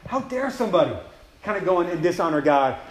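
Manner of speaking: indignant. Retold or imitated. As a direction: voice a young champion's righteous indignation. David voiced outraged for God's honor.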